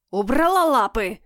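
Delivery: sharp hiss of warning. A narrator's reading. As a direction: hiss it like an angry cat. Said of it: "зашипел Люцитор".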